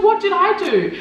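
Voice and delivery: a sister asking what she did wrong, lightly acted; hint of a puzzled older sister. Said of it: "And she's like".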